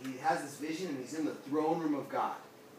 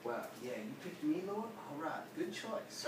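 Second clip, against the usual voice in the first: mock self-assurance; 6 dB quieter than usual. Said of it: "his first response is not like".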